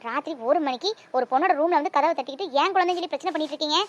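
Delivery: loud, indignant rebuke; mother angrily telling the stranger off; angry mother. Acted. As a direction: defend her baby, loud and firm.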